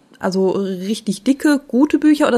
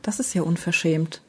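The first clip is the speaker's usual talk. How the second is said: mock indignant whisper; 3 semitones lower, 6 dB quieter than usual. Mock outrage at the joke.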